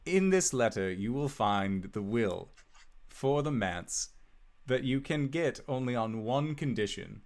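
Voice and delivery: measured, formal reading of a will; letter read aloud. Acted. Wizard setting Albus a condition for the manor, formal letter reading. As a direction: read out the bequest with lilting emphasis. Game master reads the letter.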